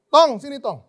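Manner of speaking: put-on high, loud call to her boy; mother calling out. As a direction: summon the kid from across the house. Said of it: "mamanya manggil". (seruan ibu memanggil anaknya)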